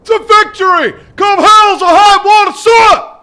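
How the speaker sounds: shouted Marine motto, sounding off; battle cry. Acted. Recruit answers the drill sergeant, sounding off loud. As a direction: bellow it back at the drill sergeant. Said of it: "Sound off like you got a pass".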